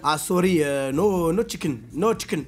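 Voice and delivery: lightly put-on Indian-accented English. Flight attendant saying the chicken is gone, mock Indian accent. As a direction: refuse with a hint of Indian accent. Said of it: "elle a pris un accent indien".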